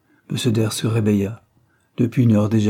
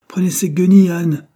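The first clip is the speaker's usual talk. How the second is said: much higher and louder, disgusted order; angry command; 9 semitones higher, 9 dB louder than usual. A narrator's reading. Anthony ordering the maid to throw the rags out, angry command. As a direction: bark it out in disgust.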